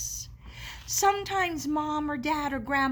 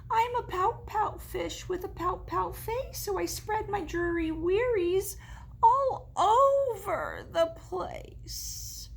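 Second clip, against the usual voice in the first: mopey refrain; 6 semitones higher than usual. Acted.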